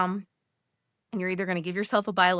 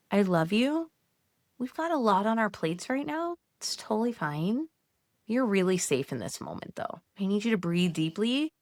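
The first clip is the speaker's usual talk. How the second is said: put-on calm yourself like a frightened child; reassuring pep talk to her own brain; gentle self-soothing.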